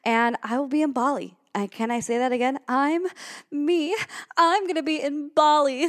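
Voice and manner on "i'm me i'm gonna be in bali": higher-pitched, emphatic and thrilled; excited repeat. Real, not acted. Podcaster repeating her Bali news in disbelief, excited. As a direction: say it again, marveling that it's really you.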